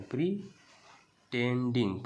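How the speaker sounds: प्रीटेंडिंग said slowly and carefully, syllable by syllable; slow spelled-out word. Shown as a demonstration. Teacher to class, sounding out प्रीटेंडिंग slowly. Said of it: "प्रीटेंडिंग मतलब नकल करना".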